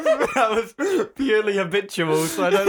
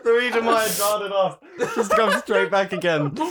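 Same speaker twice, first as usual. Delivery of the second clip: laughing. Real, not acted. Laughing while explaining.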